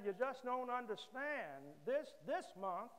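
hammed-up self-pity, climbing as he goes; whiny complaint. Joke: ungrateful man complains.

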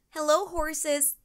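high, slow called-out hello; yelled greeting. A narrator's reading. Katie greeting the ranch horses, high slow call. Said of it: "Katie yelled".

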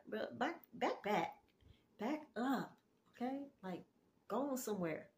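soft, retold brush-off; dismissive attitude. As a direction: shoo them away under your volume, in short bursts. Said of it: "That's basically the attitude I had".

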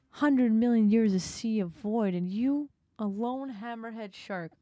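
sneering creature speech; cruel octopus monologue. Acted. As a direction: tear the lonely shark down.

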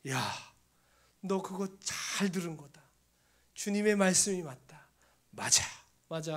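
imitated delighted approval; retold happy voice of God; very joyful voice. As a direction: exclaim it gladly, punching the praise. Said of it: "아주 기쁜 목소리로".

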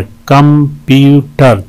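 "कंप्यूटर" slowly, in three even separate beats; syllable breakdown. Shown as a demonstration. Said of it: "तीन syllable हैं इसमें". ("कंप्यूटर" तीन अलग बराबर हिस्सों में)

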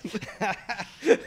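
high, loud burst of laughter; laughing. Real, not acted. Guest laughing at the host's Irish impression. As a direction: laugh out at the imitation. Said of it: "I like your Irish accent".

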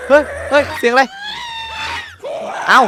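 sudden loud, high yelp of fright; startled yell. Real, not acted. Gamer yelling after a jump scare in the Nether. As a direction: jump out of your skin and shout. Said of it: "โดนจัมป์สแกร์ตอนมา".

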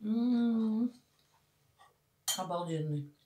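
chewing while speaking; talking between bites; mouth full of food. Real, not acted. Seen 0: Mouth works on food after spoonful; bread held, unclear what chewed.

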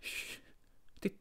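hushed and tense; listen hard, keep it hushed. Acted. Hears voices.

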